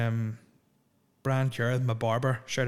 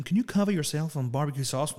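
bad American accent; 4 semitones higher than usual. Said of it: "really bad American accents".

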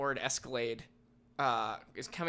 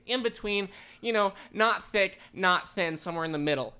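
high, wishy-washy explaining; mock fussy vague request; imitating the customer; 5 semitones higher, 4 dB louder than usual. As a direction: customer clarifying her cut to the deli worker, higher fussy voice. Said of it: "does the wishy-washy hand signal".

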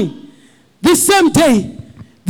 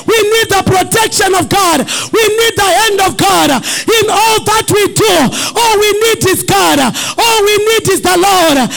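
raised, insistent preaching; fervent preaching; 4 semitones higher than usual. Acted. Pastor urging the church to trust God. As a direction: build and press each line.

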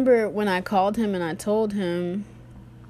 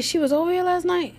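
higher, incredulous repeated question; disbelieving brother; 10 semitones higher than usual. Retold or imitated. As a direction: sound stunned by the news.

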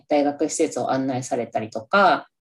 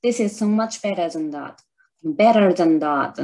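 repeat attempt; slower than usual. Shown as a demonstration. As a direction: say it again more gently. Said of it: "言えてる？".

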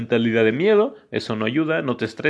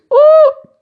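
shrill-high ending whoop; 16 dB louder than usual. Acted. Closing the episode with a whoop. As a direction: end with a piercing "uh". Final squeal.

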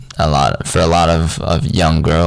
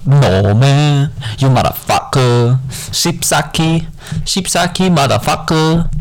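higher, far-off mock Asian accent cursing; 6 semitones higher, slower than usual. Showing off swear words in a mock Asian accent. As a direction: curse in an exaggerated Asian accent. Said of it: "an Asian accent".

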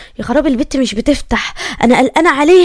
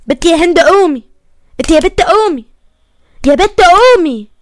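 insistent wake-up call; 2 semitones higher, 5 dB louder than usual. Acted. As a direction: keep calling her to get up, growing louder. Trying to wake the unresponsive girl. (نداء بإلحاح لتصحية حد)

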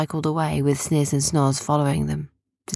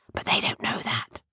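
softer, secretive aside; whisper; 5 semitones higher, 5 dB quieter than usual. A narrator's reading. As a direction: let them in on it in secret. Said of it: "whispered David".

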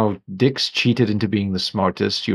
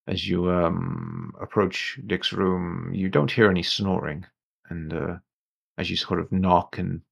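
game master narration; 4 dB quieter than usual. A narrator's reading. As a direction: draw the players in quietly. Game master sets the scene.

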